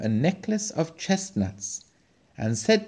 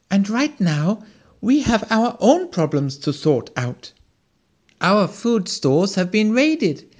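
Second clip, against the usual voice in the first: higher, louder worried squirrel; anxious squirrel; 7 semitones higher, 3 dB louder than usual. A narrator's reading. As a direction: wail it like a starving little squirrel. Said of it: "exclaimed the squirrel".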